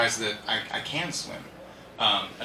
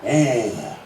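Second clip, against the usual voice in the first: soothing horse; 4 semitones lower, 4 dB louder than usual. Shown as a demonstration. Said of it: "That's all you need".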